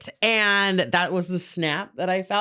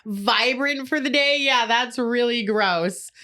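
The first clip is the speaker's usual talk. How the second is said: sarcastic; 3 semitones higher than usual. Acted. Teasing a friend about skincare, sarcastic. Mock scolding of friend's cute routine.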